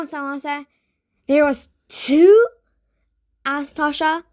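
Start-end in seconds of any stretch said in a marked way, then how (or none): 1.3-2.5 ghostly. Acted. Ghost echoes question.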